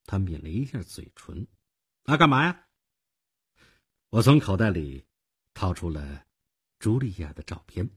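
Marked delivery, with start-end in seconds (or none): 2.1-2.7 higher-pitched, haughty "what do you want"; arrogant young clerk. A narrator's reading. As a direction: play a cocky ticket clerk, pitched up. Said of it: "一副非常傲慢的样子".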